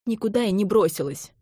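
ordinary delivery, nothing marked

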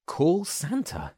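high, slow, mincing voice; a high, fussy minced question. A narrator's reading. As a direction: mince the words up high and prissy. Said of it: "minced Jack".

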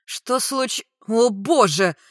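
high question breaking into loud exclamation; shocked. A narrator's reading. Friend seeing the scene, shocked. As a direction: break off, then gasp it out loudly. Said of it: "с округлёнными глазами от удивления".

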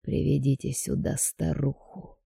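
slow and clearly spoken; distinct, deliberate. A narrator's reading. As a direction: spell out each word slowly. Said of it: "проговорил отчётливо".

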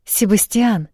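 can't hold it in any longer; blurted out. A narrator's reading. Gabriela calls her husband back, blurting his name. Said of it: "не выдержала Габриэла".

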